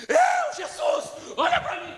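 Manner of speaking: loud, high, drawn-out cry; crying out to Jesus. Shown as a demonstration. Showing the church how to cry out, loud desperate plea. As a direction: call out desperately to be seen. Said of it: "Sabe o que você tinha que fazer?".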